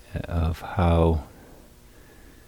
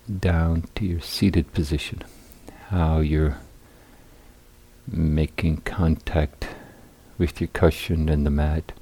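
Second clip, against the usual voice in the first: unhurried guiding voice with long pauses; guided meditation. Real, not acted. Teacher guiding seated meditators into balanced posture, calm guided meditation. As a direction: lead them calmly through settling the body, phrase by phrase.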